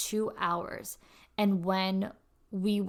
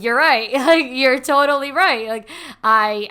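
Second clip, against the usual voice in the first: loud laughing admission, higher; laughing surrender; 5 semitones higher, 14 dB louder than usual. Retold or imitated. To the mentor, giving in, laughing loudly. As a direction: concede through a laugh.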